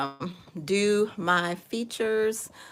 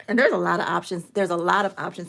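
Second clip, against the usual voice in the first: muffled behind a hand; speaking through a covering hand; hand over mouth; 4 dB louder, faster than usual. Real, not acted. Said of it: "I have my mouth, my hand over my mouth".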